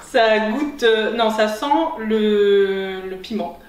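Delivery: talking with a burning mouth; words through spicy heat; mouth burning from spicy food. Real, not acted. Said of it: "j'ai un peu la bouche en feu".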